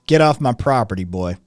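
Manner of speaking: loud mock Tennessee threat; Southern landowner. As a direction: order a trespasser off, Southern style. Acts Southerner warding off Glazy.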